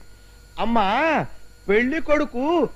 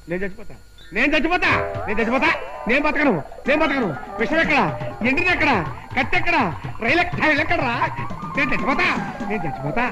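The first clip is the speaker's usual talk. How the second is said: mock despair; faster than usual. Priest's comic despair.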